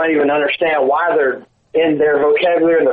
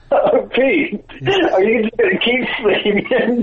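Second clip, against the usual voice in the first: mock wake-up call; 6 semitones higher than usual. Waking Pete in the skit.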